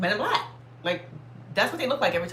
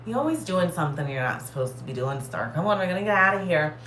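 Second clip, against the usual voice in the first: nonchalant. Retold or imitated. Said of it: "she was just so nonchalant".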